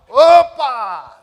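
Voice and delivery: startled shout. Retold or imitated. Caught at the door.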